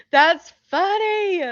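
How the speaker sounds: high, slow and loud, tickled; real amusement. Real, not acted. Streamer reacts to viewers hearing the F-bomb, real amusement. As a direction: draw it out high, fresh from a chuckle. Still laughing at being overheard.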